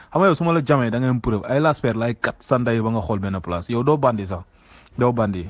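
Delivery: heated, insulting threat; angry threat. Real, not acted. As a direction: threaten him, voice climbing.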